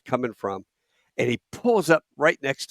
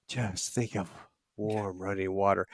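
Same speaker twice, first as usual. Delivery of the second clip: soft remembered hush; 5 semitones lower, 9 dB quieter than usual. Retold or imitated. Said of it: "Beth going".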